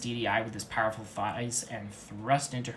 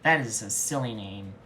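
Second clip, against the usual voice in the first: mocking; 5 dB louder than usual. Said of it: "with mocking truth".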